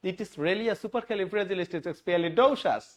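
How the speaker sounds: amazed explorer. Retold or imitated. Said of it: "সে এরকম একটা কথা বলতেছে".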